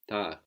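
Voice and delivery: "tard" with no D at the end; silent final D. Shown as a demonstration. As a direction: say "tard" the French way, dropping the D. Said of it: "the final consonant in French ... is rarely pronounced".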